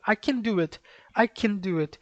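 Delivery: "can" flowing on its n into "do"; affirmative "can" demo. Shown as a demonstration. Teacher contrasting it with negation, "can" left open on n. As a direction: say "can" with no stop before "do". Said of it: "Você percebe que muda o tom".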